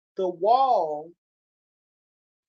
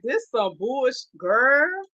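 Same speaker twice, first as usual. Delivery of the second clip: retold outrage; 3 semitones higher, 6 dB louder, much slower than usual. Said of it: "I was like".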